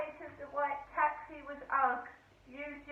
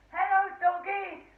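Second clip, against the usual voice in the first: put-on high, loud baby-talk greeting to the dog; imitating a taxi driver's loud, high hello to a dog; mock sing-song greeting to a dog; 8 semitones higher, 9 dB louder than usual. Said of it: "the Indian bloke goes".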